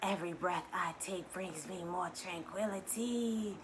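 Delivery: calm soft mantra; soft affirmation. Shown as a demonstration. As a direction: say it gently to yourself. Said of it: "second affirmation".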